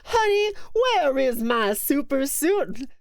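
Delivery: hollering for the suit through the house; mock Frozone quote. Streamer quoting the Incredibles line, hammed-up. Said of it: "That's what it was".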